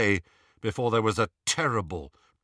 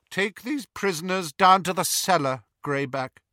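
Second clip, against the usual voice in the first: higher-pitched order; cool command; 8 semitones higher than usual. A narrator's reading. Narcissa sending Greyback to the cellar, commanding. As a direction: order the werewolf with authority.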